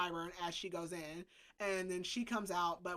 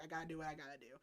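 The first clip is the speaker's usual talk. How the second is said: resigned aside; 4 semitones lower, 10 dB quieter, much faster than usual. Retold or imitated. Voicing a character's secret mental message.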